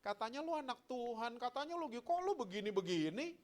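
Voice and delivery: high-pitched sneering accusation; mock accuser casting doubt; devil's taunt. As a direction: needle them in a mocking high voice.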